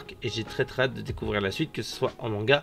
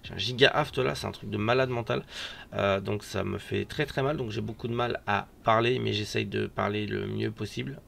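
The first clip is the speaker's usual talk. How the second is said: real lisp from a swollen mouth sore; talking with a lisp, sh for s; 5 dB quieter than usual. Real, not acted. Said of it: "je zozote beaucoup".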